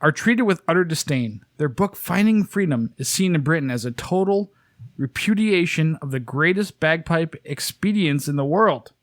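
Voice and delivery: fake British. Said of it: "fake British".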